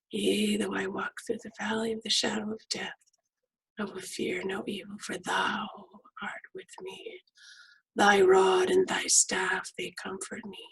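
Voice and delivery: hushed meditative psalm reading; guided meditation recital. Acted.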